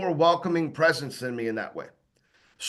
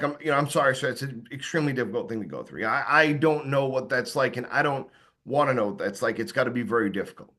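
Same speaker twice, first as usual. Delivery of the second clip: sincere sympathy; 5 semitones lower than usual. Retold or imitated. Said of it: "the voice tone caused the guy to open up".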